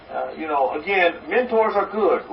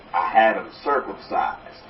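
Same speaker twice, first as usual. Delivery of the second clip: proud Texan punchline; 10 semitones lower, 4 dB quieter than usual. Acted. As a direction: drop the voice low and savor the punchline. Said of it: "leans to the bartender proudly, and says".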